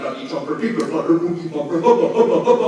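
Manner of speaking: rhythmic chant building to a loud finish; poem recital. Acted. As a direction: bounce the rhyme and shout the end. Performs tongue twister poem.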